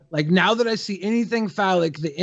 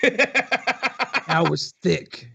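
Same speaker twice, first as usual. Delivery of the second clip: laughing; 5 semitones higher, much slower than usual. Real, not acted. Joke with laugh.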